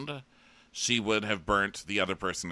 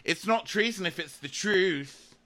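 high, slow, drawn-out tagline delivery; hammed-up sassy reality-show catchphrase; Real Housewife line; 11 semitones higher than usual. Sam's tagline about treason, in Real Housewife style. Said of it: "this is Sam's Real Housewife line".

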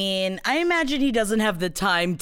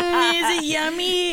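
mock sultry; 9 semitones higher than usual. Mocking the song.

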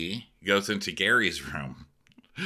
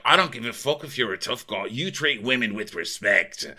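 fast, slightly raised retold telling-off; mock stern scolding; 4 semitones higher than usual. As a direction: imitate someone laying down the law. Acting Gary scolding Tom.

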